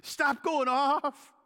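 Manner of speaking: slow, loud, high order to his own heart; stern self-command. Retold or imitated. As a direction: rein yourself in, firmly and slowly. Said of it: "pulling the reins in his heart and says".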